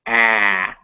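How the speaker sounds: flat front ah in ah, ah; ah vowel demo. Shown as a demonstration. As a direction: stretch the ah as in cat. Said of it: "This is a very English sound".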